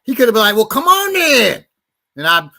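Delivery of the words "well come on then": high, timid come on then; meek backing down. Pretend. Imagined boyfriend caving in, high and timid. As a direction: play him suddenly meek.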